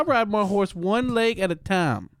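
cowboy voice. Pretend. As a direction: boast like a dumb cowboy. Playing Cowboy Tim.

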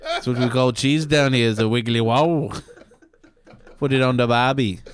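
amused mock-Aussie explanation; hammed-up Australian local; Australian accent. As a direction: explain slang in put-on Australian. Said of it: "tell the story in an Aussie accent".

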